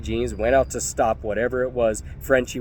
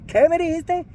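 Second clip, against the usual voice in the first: much higher, leaning on me; repeated furious challenge. Retold or imitated. Narrator pressing the thug again, sharp and high. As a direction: demand it again. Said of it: "I said".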